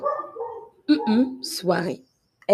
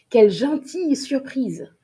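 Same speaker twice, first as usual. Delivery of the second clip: higher, delighted mock surprise; pleased surprise; 5 semitones higher than usual. Teacher acting out a nice surprise. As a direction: sound happily surprised. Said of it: "Ou bien".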